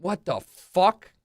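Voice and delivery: stunned reaction to a stunt; amazed. Real, not acted.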